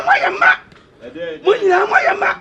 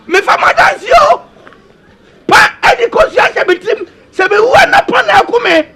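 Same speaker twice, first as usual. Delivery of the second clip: wailing lament; 2 semitones higher than usual. Acted. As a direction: call out to the people in anguish. Lamenting cry to the people.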